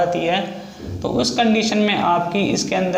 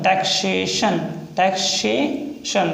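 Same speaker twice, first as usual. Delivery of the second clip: slow dictation; much slower than usual. Shown as a demonstration. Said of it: "next है taxation".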